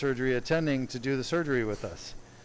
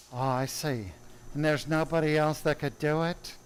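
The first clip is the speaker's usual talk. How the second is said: Doctor Roten impression; 2 semitones higher than usual. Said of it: "we all mimic Doctor Roten's voice".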